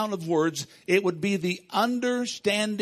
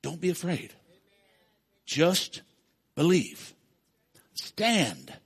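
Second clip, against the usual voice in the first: soft reassurance; 2 semitones lower, slower than usual. Retold or imitated. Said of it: "And he just said".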